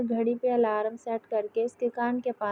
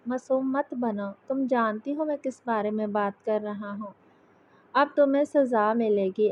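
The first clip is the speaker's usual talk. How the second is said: pretend anger. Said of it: "गुस्से से बोला".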